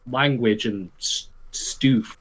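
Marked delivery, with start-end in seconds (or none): 1.5-2.2 "stoof" said with a long oo, stoof; silly pronunciation. Shown as a demonstration. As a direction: say stuff as "stoof". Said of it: "That's Stu spelled S T O O F".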